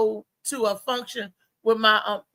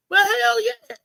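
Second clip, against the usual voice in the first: emphatic higher hell yeah; a much higher hell yeah; 10 semitones higher, 4 dB louder, slower than usual. Real, not acted. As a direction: throw it out with conviction. Emphatic agreement.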